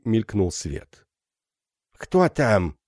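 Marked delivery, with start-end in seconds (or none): 2.0-2.8 беззубая старуха кричит из-за двери; прошамкать как дряхлая старуха; шамкающий старческий голос. Acted. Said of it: "крикнул шамкающий голос". (старуха окликает из-за двери, шамкая)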